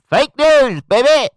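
high, very loud catchphrase yell; hammed-up shout. Commentator ridiculing the untrustworthy news, hammed-up shout. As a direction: belt it out like a mocking slogan.

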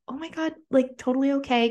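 lightly voiced bubbly sorority girl; imitating a sweet girl. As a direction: play the kind girl rushing to comfort. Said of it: "And she was like".

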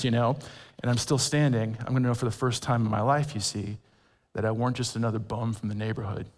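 put-on a mild South Philly accent, quick at first, then hushed; South Philly Rocky accent. Pastor quoting Rocky to Adrian, mild South Philly accent. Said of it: "This South Philly accent with a boy from California".

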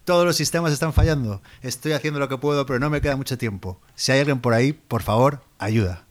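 hammy plea for rescue over the radio; melodramatic distress call. Acted. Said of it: "¿Cómo, cómo te gusta el melodrama?".

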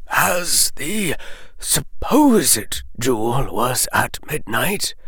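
hushed elderly headmaster delivering bad news; hushed Dumbledore. A narrator's reading. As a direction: murmur it like a grave old wizard. Dumbledore voiced.

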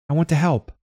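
put-on a little girl reassuring the snowman; gentle child's voice. A narrator's reading. Girl offering help to the snowman, high and kind. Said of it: "It's all right," she said".

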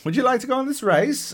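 high, perky imitation of a game caller; mock recorded greeting, big pause, then a quick question; stitched game voice recording. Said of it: "Major pause while it finds the next sentence".

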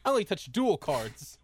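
mock snooty, laughing through it; laughing quote. Host laughingly quoting the snooty duelist. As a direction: giggle out the snobby line. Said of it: "He's like".

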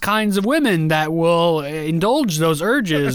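slow, halting father-to-son talk; a hint of an awkward, drawn-out lecture; imitated fatherly lecture. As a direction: lightly play a father labouring through advice.

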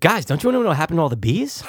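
quick, rushed Wahlberg line; a light Mark Wahlberg impersonation, fast; mock Wahlberg, barely changed voice; Wahlberg impression. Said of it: "your Wahlberg impersonation".

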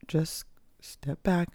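slow sighing whisper; soothing self-coaching whisper; calming whisper. Shown as a demonstration. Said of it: "encouraging myself to just".

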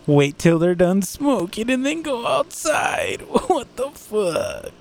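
exasperated shout. Real, not acted. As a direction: yell it at the neighbor in disbelief. Exasperated rant at neighbor.

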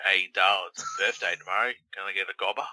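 light mock British accent, quick; a hint of a British bloke asking. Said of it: "Pretty British".

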